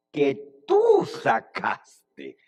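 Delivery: "tú" held long and punched, then drop; stress on TÚ. Acted. Moses handing the people back to God, pointed stress. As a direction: drag out and hit "tú", slowly.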